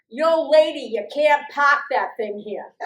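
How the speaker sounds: a hint of a big gruff cop calling out, loud; mildly mock a tough harbor cop; lightly voiced sergeant. Irish sergeant on a boat calling to the lady, lightly voiced and loud.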